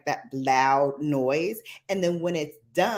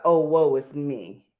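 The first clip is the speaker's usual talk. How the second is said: woe is me; 2 semitones lower than usual. Retold or imitated. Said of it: "I call that the".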